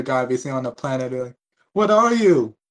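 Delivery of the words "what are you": high, loud alien machine asking; robot drone voice. Retold or imitated. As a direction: voice a startled drone.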